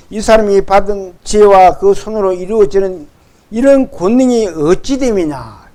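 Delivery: measured, emphatic Bible reading; scripture read aloud. Acted. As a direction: lead the congregation in reading the verse. (또박또박 성경 봉독)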